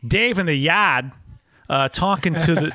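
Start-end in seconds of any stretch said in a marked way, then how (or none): 0.1-1.1 lightly dropped R in Boston style; hint of Boston accent. Host coaxing guest into character, hint of Boston accent. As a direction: slip a little Boston into it.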